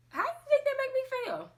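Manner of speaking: hurt outburst. Real, not acted. Emotional rhetorical outburst.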